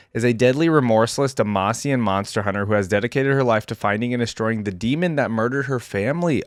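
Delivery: even, measured read-aloud narration; story narration. A narrator's reading. YouTuber reading a champion's biography to viewers, story narration.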